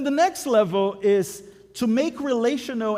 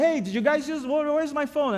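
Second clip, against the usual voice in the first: mock annoyed dad; 7 semitones higher than usual. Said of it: "I get mad at my boys".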